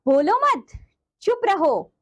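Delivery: "बोलो मत" said as one falling phrase, then "चुप रहो"; pause after मत. Shown as a demonstration. Teacher showing children a comma example, pause after "बोलो मत". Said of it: "उदाहरण देखिए जरा".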